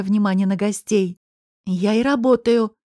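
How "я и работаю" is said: snapping back. Acted. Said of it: "огрызнулась я".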